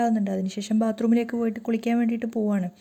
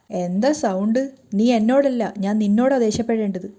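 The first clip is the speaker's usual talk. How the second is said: louder, angry husband lashing out; loud angry outburst; 3 dB louder, slower than usual. Acted. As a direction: bark it back at her. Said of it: "പൊട്ടിത്തെറിച്ചിട്ട് ശബ്ദത്തോടെയാണ് സംസാരിക്കുന്നത്".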